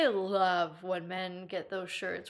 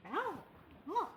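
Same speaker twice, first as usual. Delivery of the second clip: dragon noises; 8 semitones higher, 7 dB quieter than usual. Pretend. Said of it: "That's my dragon noises".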